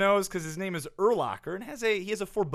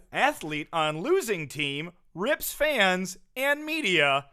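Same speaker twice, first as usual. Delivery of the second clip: slow, spaced-out news headline; mock headline read. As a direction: read it out like big breaking news.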